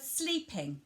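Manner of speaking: SLEEPING set apart and stressed. Shown as a demonstration. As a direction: lean clearly on the word sleeping. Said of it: "you would emphasise the word".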